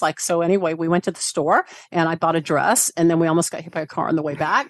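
rising like questions on "store", "dress", "back"; uptalk. Shown as a demonstration. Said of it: "talk like this".

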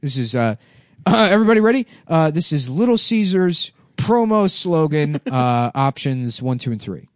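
mock presenter. Mock focus group presenter.

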